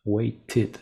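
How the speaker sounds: "Waited" said as "wei-tid"; ED as extra syllable. Shown as a demonstration. Teacher explaining no second T is possible, two-syllable waited. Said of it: "Porque no puedo tener otra T".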